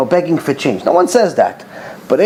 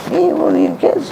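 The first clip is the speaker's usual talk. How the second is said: astonished reply; 10 semitones higher than usual. Retold or imitated. Rabbi's astonished reply in story.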